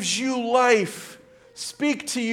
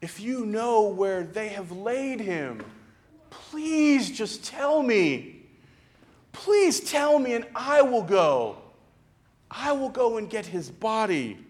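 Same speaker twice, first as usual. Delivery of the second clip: fearful pleading. Acted. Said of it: "with fear in her tone".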